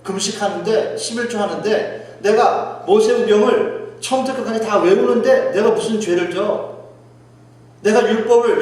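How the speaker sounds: indignant, mounting self-defence; acted-out boast of piety; self-righteous protest. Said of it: "유대인들은 착각을 한 거예요".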